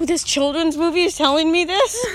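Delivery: laughing through a mock-shocked question; laughing disbelief. Retelling her shock at a kids' movie, laughing. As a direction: giggle at the absurdity. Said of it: "I was like".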